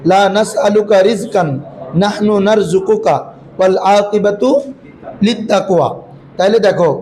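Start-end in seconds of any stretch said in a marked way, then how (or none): 0.1-5.9 slow, measured Quranic recitation. Acted. Teacher recites the verse to the students slowly and measuredly. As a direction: chant the verse slowly and evenly.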